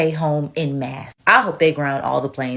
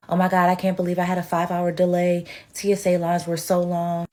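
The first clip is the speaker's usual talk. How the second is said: lightly mocking entitled whine; a hint of a whiny passenger; mock complaint; 3 semitones higher than usual. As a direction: imitate a spoiled traveler, barely changed. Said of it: "people that are like".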